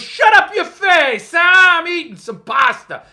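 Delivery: high, loud, gruff mock King voice; Stephen King impression. King snapping at a fan over pasta, loud mock grumble. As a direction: bark it back like a cranky King. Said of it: "Your King impression is spot on".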